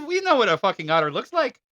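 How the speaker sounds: a weak, fast attempt at an Irish accent; half-hearted Irish accent, quick and scoffing; bad Irish accent. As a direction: toss it off in a failed Irish accent. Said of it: "I cannot do a good Irish accent".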